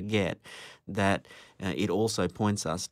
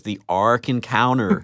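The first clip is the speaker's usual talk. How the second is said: put-on Kentucky accent; 5 dB louder than usual. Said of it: "I'll use my Kentucky voice".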